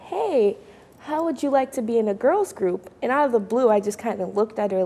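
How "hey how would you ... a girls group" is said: mom's invitation. Retold or imitated. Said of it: "And she said".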